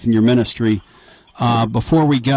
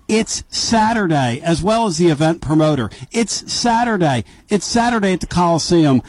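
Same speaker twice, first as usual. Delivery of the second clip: wife's text; 3 semitones higher than usual. Retold or imitated. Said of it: "my wife just texted me and said".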